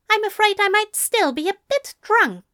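a tipsy angel trying to sound sober and demanding; flustered drunk angel. Acted. Angel apologizes on phone.

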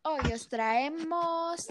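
hushed, slow whisper. Acted. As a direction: whisper the announcement softly. Whispered show announcement.

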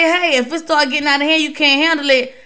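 fast, blunt talking-to; officer bluntly lecturing a partner, fast telling-off. Retold or imitated. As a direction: set a teammate straight quickly. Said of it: "Maybe you need to talk like that to 'em".

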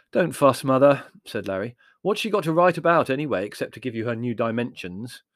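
loud impatient brush-off. Acted. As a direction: brush her off loudly. Larry brushes Mother off.

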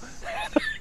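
short breathy laugh; real laughter. Real, not acted. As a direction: break into a brief laugh after the punchline. Laughs at own story.

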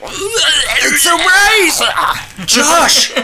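spaced-out awe, drawn out; high and amazed, like on a bad trip; tripping on drugs. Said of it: "I am tripping balls right now".

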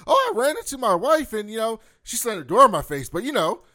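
high, loud, chipper and carefree; mock jolly cheer. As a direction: play it blissfully oblivious. Voicing jolly Bobby.

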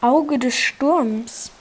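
drawn-out movie-trailer line; dramatic slow. Pretend. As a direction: stretch each word like a trailer. Sandstorm in game. (langsam und dramatisch)

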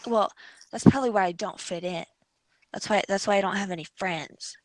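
lightly voiced sad little fairy; a hint of a mopey fairy; emo fairy voice. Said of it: "What is this voice?".

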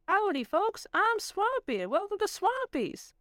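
a creaky robot mascot greeting; old rusty robot. Acted. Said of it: "The robot stuttered and choked".

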